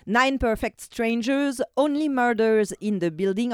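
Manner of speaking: English show titles in a Quebec French accent. Real, not acted. Radio columnist listing nominated series, French-accented English. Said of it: "En plus, vous avez mon accent anglais".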